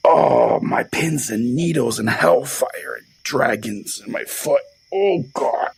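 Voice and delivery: drawn-out, melodramatic groaning in pain; strained, high moaning through the words; acted agony. Pastor suffering pins and needles in his foot, hammed-up agony.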